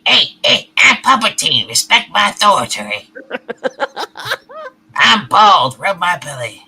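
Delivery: low mock puppet boss voice; lightly voiced pompous puppet; puppet villain voice. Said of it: "a Puppeteer voice".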